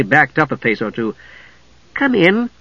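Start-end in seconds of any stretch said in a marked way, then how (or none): 1.9-2.5 high, courteous kender voice; polite invitation. A narrator's reading. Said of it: "he invited the spectre politely".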